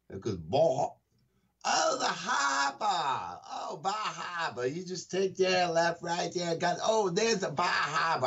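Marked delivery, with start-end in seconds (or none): 1.7-8.3 higher, slow Maine drawl "Bah Hahbah"; Maine accent. Retold or imitated. Co-host retelling a Maine tourist's directions, Maine accent. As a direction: play the Maine local giving directions. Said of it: "I couldn't understand what you were saying".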